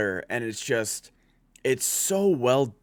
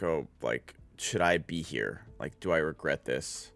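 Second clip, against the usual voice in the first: softly quoting Nanami; 6 semitones lower, 5 dB quieter than usual. Retold or imitated. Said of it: "he's asking, like".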